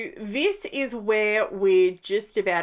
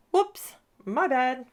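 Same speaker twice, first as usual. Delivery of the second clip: higher, slow, cheeky apology; sheepish whoops; 6 semitones higher, slower than usual. Real, not acted. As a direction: own the mistake playfully.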